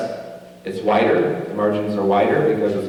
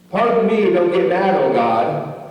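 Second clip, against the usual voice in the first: timid plea to God; 5 semitones higher than usual. Retold or imitated. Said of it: "Kinda looks like that".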